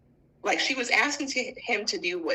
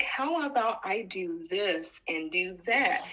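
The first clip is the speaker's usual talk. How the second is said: timid husband; 6 semitones lower, slower than usual. Retold or imitated. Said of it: "he was like".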